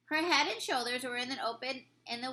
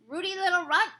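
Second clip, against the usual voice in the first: loud, higher jeer; giants shouting; 5 semitones higher, 4 dB louder than usual. A narrator's reading. Giants throwing rocks, shouting at the BFG. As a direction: hurl the insult like a rock. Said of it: "they shouted".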